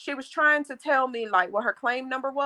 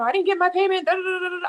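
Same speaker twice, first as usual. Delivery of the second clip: mock rant; 8 semitones higher, much faster than usual. Mocking ranting caller.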